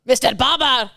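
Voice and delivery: sliding into French; accidental French accent. Acted. The German man turns French, mock French accent. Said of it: "Oh, French".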